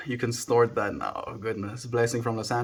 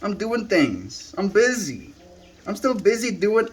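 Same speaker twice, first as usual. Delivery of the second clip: voicing the pet; 9 semitones higher than usual. Voicing the pet's reply.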